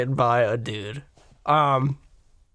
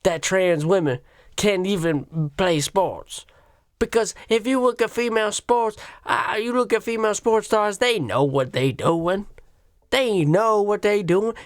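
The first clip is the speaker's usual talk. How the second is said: put-on lightly caricatured Black American accent; mocking argument in an exaggerated Black American accent; Whoopi Goldberg; 3 semitones higher than usual. Panelist defending female sports stars, hammed-up Black American accent. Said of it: "giving her a ridiculously exaggerated black voice".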